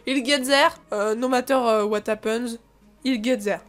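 English with a heavy French accent; franglais accent. Shown as a demonstration. Player showing their lazy franglais reading, French-accented English. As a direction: read English as if it were French. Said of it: "un petit peu franglais".

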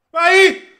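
high, loud urging yell; excited shout. Real, not acted. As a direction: roar the player on. Urging attack.

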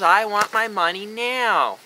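slow, demanding whine, mocking; spoiled brat. Mocking an ad's spoiled brat, lightly whiny. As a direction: drag out the demand like a bratty kid. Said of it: "Spoiled brat".

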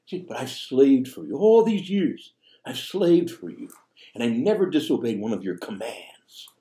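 mild mock anger of the son listing his slaving; resentful son. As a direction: hammer the grievance home. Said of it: "the way he speaks to his father".

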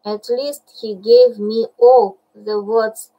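impatient. Acted. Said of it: "said Bagheera impatiently".

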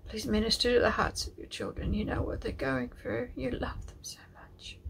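high, fragile plea sinking very soft; tearful prayer. Real, not acted. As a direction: pray through tears, fading to a whisper. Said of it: "I don't know why I'm crying".

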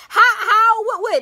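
high, flustered and laughing; laughing confusion. Retold or imitated. Recalling her first smoke in the car, laughing confusion. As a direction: stammer through a laugh, totally lost.

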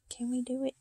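hushed whisper. Real, not acted. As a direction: murmur to yourself. Whispered attempt.

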